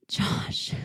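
breathless whimpered name; whimpered whisper. A narrator's reading. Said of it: "My whimper hitched".

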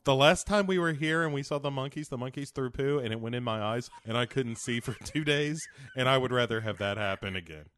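hammed-up kid tattling to Mommy; whiny kid. Kid complaining to Mommy about the film, mock whine.

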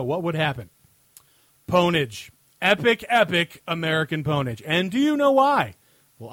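emphatic segment-host read, punching key phrases; scripted comic rant. Acted. Host answering a listener question on air, scripted comic rant. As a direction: read a mock-serious written answer aloud.

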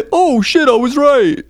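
high giggly mock exclamation; laughing mock line. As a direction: crack up as you say it.

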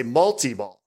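"multi-ball" with an ee, mul-tee-ball; "multi-ball" with TEE in the middle; own "multi-ball". Shown as a demonstration. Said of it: "I always say multi-ball".

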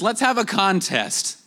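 a hint of a cocky prophet daring the other side; Elijah's challenge. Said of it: "when he says".

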